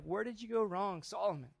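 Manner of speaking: preacher wondering aloud to Solomon, soft; soft wondering plea. Retold or imitated. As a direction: murmur it as if to Solomon. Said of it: "we can't help but wonder, like".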